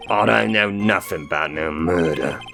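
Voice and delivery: put-on Brooklyn accent. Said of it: "trending further and further towards just doing a Cockney accent".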